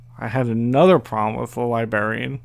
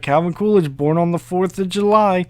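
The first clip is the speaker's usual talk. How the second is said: confident bluff; 5 semitones higher than usual. Retold or imitated. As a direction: spin it like a know-it-all. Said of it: "I was like".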